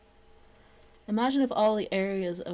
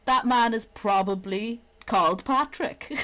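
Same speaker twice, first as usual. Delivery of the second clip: loud, high mock awe; hammed-up wonder breaking into laughter; mock amazement; 4 semitones higher, 6 dB louder, slower than usual. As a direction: gasp at how Irish he sounds. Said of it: "You're like".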